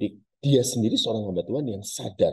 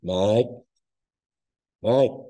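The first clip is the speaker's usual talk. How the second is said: ghostly mother calling; 3 semitones higher, 4 dB louder than usual. Acted. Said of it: "dia panggil namanya".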